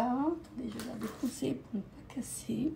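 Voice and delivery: soft unvoiced whisper while setting it down. Real, not acted. Vlogger whispering while putting the fragile item down. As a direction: hush it, careful not to break anything.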